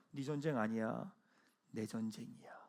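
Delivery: hushed reassuring voice of God; tender divine voice. Acted. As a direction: let God speak it gently. Voicing God's words.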